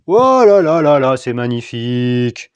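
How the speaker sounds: loud wail sliding down into drawn-out words; hammed-up marvelling, stretched out slowly; exaggerated admiration. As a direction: gush over it theatrically. Mock marvelling at his work.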